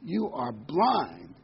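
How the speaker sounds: hammed-up booming divine voice; booming voice of God. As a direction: thunder down in mock exasperation. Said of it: "a booming voice comes on and says".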